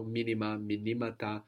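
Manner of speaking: "minima" stressed MI-nima, then "minimata" stressed mi-NI-mata; accent moves. Shown as a demonstration. Teacher showing a longer word, stress moving in "minima, minimata". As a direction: shift the stress one syllable along from "minima" to "minimata". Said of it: "we move the accent".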